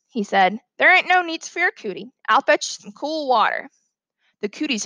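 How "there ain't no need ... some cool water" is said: lightly voiced helpful country boy; a touch higher, coaxing her to calm down; reassuring boy. Boy offers teacher cool water, lightly voiced reassurance.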